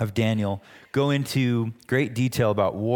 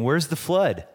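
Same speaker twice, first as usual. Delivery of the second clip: lightly mocking, slightly raised questions; a touch of mockery in each question; imitated mocking; 3 semitones higher than usual. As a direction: mimic scoffers firing off doubting questions. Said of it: "people were mocking him and saying".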